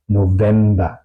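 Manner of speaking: "November" with voiced v, not f; V como W alemana. Shown as a demonstration. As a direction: say "November" as "no-vemba". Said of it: "se pronuncia como una". ("November" con la v sonora)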